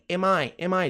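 AM I run together as one word, "emai"; linked Am I. Shown as a demonstration. Teacher shows students linking, AM I joined as "emai". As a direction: glide the 'm' of AM straight into I. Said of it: "Ligação".

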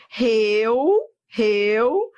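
REUNIÕES drawn out as reu, ni, ões; syllable by syllable. Shown as a demonstration. Teacher warning about separating syllables, syllable by syllable. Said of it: "Cuidado na hora de separar as sílabas".

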